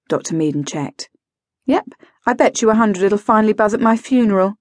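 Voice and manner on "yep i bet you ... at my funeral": quick, dry quip. Acted. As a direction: toss it off with dry humour. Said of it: "she said dryly".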